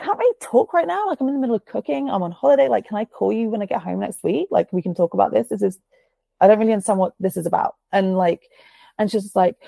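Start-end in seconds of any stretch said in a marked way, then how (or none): 0.0-7.8 high, hurried flustered brush-off; higher voice, fast and flustered, trying to get off the phone; mock frazzled brush-off while cooking.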